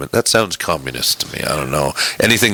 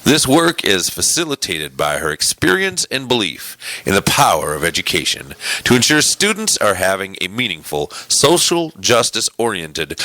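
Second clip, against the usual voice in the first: announcer read with lifted, swooping phrases; punched-up radio delivery. Pretend. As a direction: read the bio like a broadcaster. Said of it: "do this in my radio voice".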